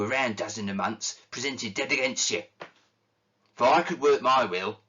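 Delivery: a lightly voiced bitter old man railing at Christmas; grumpy old miser ranting. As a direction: grumble out every complaint with contempt. Scrooge rants against Christmas.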